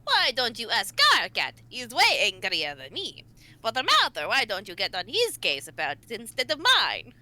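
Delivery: hammy Transylvanian vampire lilt; cartoony Dracula accent. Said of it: "you're a cartoony Dracula right now".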